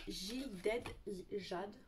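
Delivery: halting English in a French accent; English name sounded out with a French accent; poor English accent. Real, not acted. Vlogger stumbling over an English palette name, clumsy French-accented English. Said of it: "Moi et mon accent anglais, ça fait deux".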